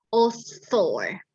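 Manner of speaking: very slow "author", drawn out; slow demo. Shown as a demonstration. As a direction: stretch "author" out slowly for the class. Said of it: "karena bunyinya". ("author" diucapkan sangat pelan)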